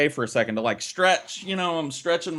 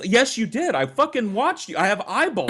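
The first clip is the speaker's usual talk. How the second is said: angry yell; 7 semitones higher than usual. Retold or imitated. Kid yelling at cheating sister.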